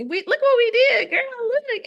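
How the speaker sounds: put-on high, excited cheer to her inner child; beaming and proud, pitched well up; proud adult self. Her grown self cheering her younger self, excited and high. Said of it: "look at little Dion and say".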